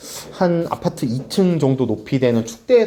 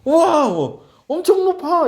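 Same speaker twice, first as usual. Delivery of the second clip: put-on high delighted child's cry; child's excited wow; 11 semitones higher, slower than usual. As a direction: marvel at the height like a kid. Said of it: "이러면서 밑에 쳐다보고". (높이에 신난 아이처럼 외치기)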